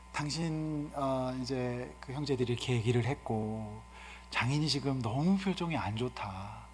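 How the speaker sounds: soft, calm husband consulting his wife; gentle hushed talk. Shown as a demonstration. Jacob gently consulting his wife, soft and hushed. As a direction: speak low and tender, like asking her opinion. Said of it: "조곤조곤하게 조용하게".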